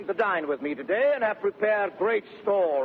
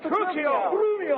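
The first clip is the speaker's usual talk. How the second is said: calling out; 11 semitones higher than usual. Acted. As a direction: shout for them across the yard. Calling out to servants.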